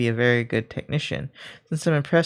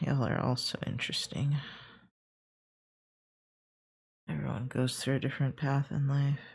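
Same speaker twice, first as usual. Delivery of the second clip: flat, expressionless deadpan, quieter; 10 dB quieter than usual. Remarking on others' different paths in life, deadpan. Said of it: "'cause I'm so deadpan".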